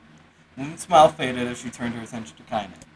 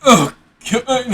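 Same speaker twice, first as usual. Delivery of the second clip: put-on old woman voice; 9 semitones higher, 8 dB louder than usual. Grandmother speaks to the girl.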